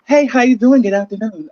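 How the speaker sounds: lightly voiced phone greeting; demonstrated phone voice. Shown as a demonstration. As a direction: show off your phone voice. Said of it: "my voice is".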